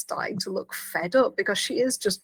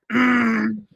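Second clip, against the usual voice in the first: Odo's standard grunt, louder; emphatic grunt; 5 dB louder than usual. Retold or imitated. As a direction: grunt a pointed, disapproving "Mm". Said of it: "increasingly emphatically".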